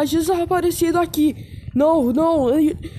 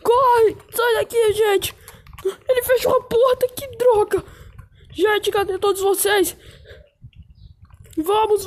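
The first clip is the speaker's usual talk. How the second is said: panicked shouting; 4 semitones higher than usual. Acted. Shouting friends to run.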